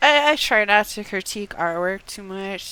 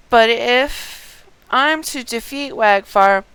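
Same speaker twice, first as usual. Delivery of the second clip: a hint of a resolved warrior, unhurried; reading as Haman; 2 semitones higher, 3 dB louder than usual. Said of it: "Haman continues".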